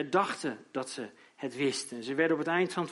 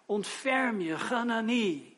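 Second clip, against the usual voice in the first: raised, slow pleading cry for mercy; Job crying out; 3 semitones higher than usual. Acted. Job begs his friends for mercy, a raised plea. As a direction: beg the friends to have pity. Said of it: "roept hij het uit".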